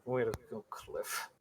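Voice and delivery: soft self-reproach, trailing off; muttering. Acted. Late hero repeating his grumble to himself, muttering. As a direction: grumble it under your breath. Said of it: "He's muttering that".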